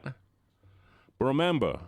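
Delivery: slow, low ominous threat; low spooky I'm watching you; menacing warning. Pretend. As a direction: lean in like a creepy watcher. Redeemed menacing voice.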